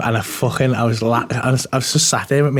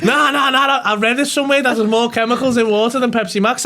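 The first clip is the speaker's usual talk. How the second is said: imitating through laughter; 11 semitones higher than usual. Mimicking guy while laughing.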